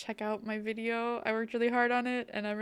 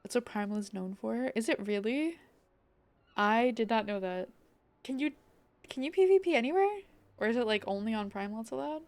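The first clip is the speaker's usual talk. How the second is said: lightly voiced pirate, southern twang. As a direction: read it like a salty sailor. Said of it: "I try to do, like, pirate voice".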